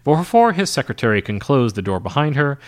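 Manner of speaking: usual speaking voice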